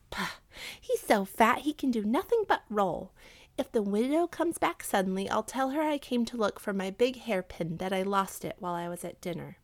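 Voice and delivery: scoff, then breezily lay out the excuse; confident scheming wife; dismissive wife. Acted. Wife figure in narrated tale.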